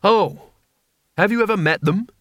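understated exasperated anger; steaming anger. A narrator's reading. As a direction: challenge her with sarcastic heat. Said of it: "anger was coming off him like steam".

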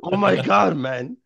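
lightly imitated friend's catchphrase; mock exasperated gamer pal; Ash. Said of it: "he says that on Apex".

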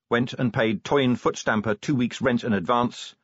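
ordinary delivery, nothing marked

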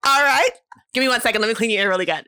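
lightly acted piercer walking a client through it; perky questioning customer-service patter; ear piercer. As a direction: run through the routine with quick little check-ins. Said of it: "You did that too perfectly".

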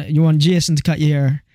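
put-on Jamaican barber's accent. Barbers offering a customer another barber, in a mock Jamaican accent. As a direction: ask it in an imitated Jamaican accent. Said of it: "That's quite a good Jamaican accent".

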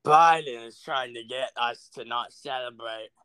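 put-on light British accent. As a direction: say it like a Brit. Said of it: "I'm talking like a British person".

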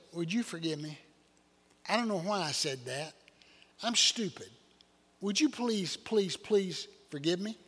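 soft, pleading apology acted out as a retold plea; mock pleading apology. Husband begging his wife's forgiveness, soft and pleading. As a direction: beg forgiveness in a hushed, sorry voice. Begging spouse after a blunder.

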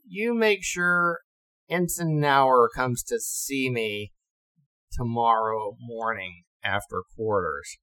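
slow, deliberate command; a hint of a displeased captain; stern captain. Captain summoning the ensign, slow stern order.

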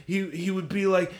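high-pitched druggy impression; slurring druggy voice. Describing the man's slurring, still in his druggy voice. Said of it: "he was slurring his words sometimes".

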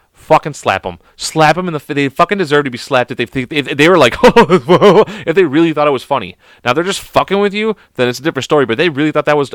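worked-up indignant rant; mad, pissed-off rant. Real, not acted. Ranting at anyone who finds that joke funny, mad. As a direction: rant as if truly offended by a bad joke. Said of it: "I'm mad".

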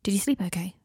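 whispered gently. Acted. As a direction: keep it hushed so she sleeps. Harry whispers beside sleeping Adelaide.

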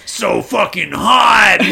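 drawn-out breathless gush, fast up high; mock swoon. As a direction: swoon over it like a fangirl. Gushing over rock star photo shoot.

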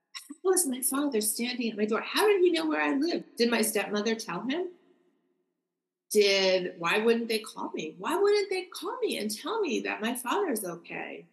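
reliving a moment of baffled disbelief; bewildered questioning. Retold or imitated. Daughter reliving her dead father standing at the door, bewildered questioning.

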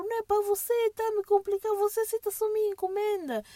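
a touch of scolding Sousa; mock exasperated. Telling off Seu Sousa for complicating things, mock exasperation. Arguing with garage man Sousa.

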